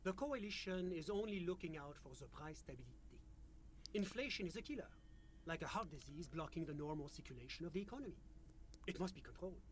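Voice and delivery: put-on French-accented official; measured, polite French accent. GM voices official NPC.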